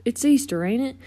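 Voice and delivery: folksy buddy bubbling with anticipation; excited tow truck character. Acted. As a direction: chatter eagerly, building to a big finish. Voices Mater in story.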